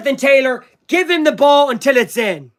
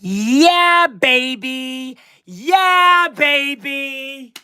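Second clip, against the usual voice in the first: celebrating; 3 semitones higher, much slower than usual. Real, not acted. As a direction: celebrate like you just won. Celebrating the win.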